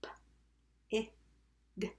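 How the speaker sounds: "P, I, g" as three isolated letter sounds; sounded out. Shown as a demonstration. Teacher tapping pig with pupils, sounded out. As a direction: tap out "pig" with gaps between sounds. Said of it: "Tap pig".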